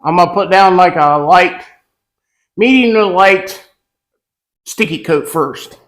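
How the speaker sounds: muffled, talking through a mask; through a face mask. Real, not acted. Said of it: "I'm gonna try to talk through the mask".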